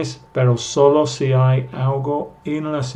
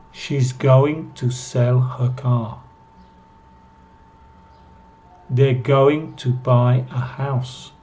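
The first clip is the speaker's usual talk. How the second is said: unhurried, careful model sentences; slow model reading. Shown as a demonstration. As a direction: read each line slowly for students to copy. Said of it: "para que ustedes puedan escuchar". (lectura lenta y clara de ejemplos)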